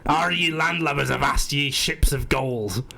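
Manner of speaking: slow pirate voice. Pretend. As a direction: growl it like a stage pirate. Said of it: "generic way of pirate speaking".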